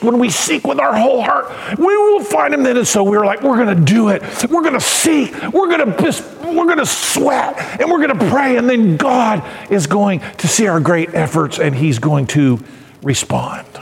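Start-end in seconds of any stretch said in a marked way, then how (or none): 3.4-8.6 eager striving. Retold or imitated. Mocking striving believers.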